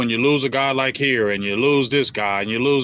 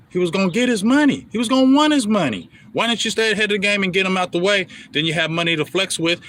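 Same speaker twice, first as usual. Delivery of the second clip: heated rant; 7 semitones higher, faster than usual. Real, not acted. Fan ranting at team owner.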